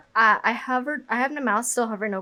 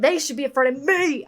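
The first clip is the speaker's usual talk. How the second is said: mock-aggressive challenge, a little higher; lightly hammed-up threat; aggressive boast; 4 semitones higher, 4 dB louder than usual. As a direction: play a bold, aggressive heroine. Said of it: "I don't think she should be that aggressive".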